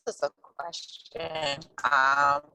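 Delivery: faint, choppy phone connection; dropping out over a bad line; voice going in and out. Real, not acted. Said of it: "your voice is going in and out".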